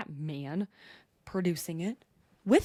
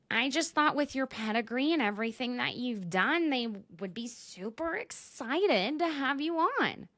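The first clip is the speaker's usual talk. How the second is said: high, lilting mock-sweet castmate; voicing Taylor; 4 semitones higher than usual. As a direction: act out an earnest compliment, pitched up. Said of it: "Back to Taylor".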